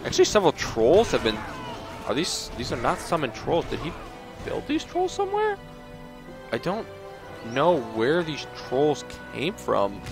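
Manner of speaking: puzzled game commentator caught off guard; genuinely puzzled. Real, not acted. Baffled by trolls appearing unexpectedly.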